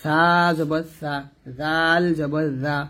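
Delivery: "সা" and "জা" kept thin, with open aa; thin articulation. Shown as a demonstration. Teacher drilling tongue-tip letters, thin articulation. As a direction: draw out "সা" and "জাল" slowly, tongue tip light and thin. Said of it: "সাটা এবং জালটা পাতলা হবে".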